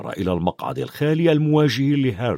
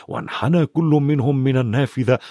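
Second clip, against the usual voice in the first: plain reading voice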